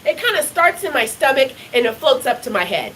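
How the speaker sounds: put-on high, light child's voice; little daughter. Five-year-old daughter explaining to mom, high childlike. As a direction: speak like a matter-of-fact five-year-old. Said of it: "she said".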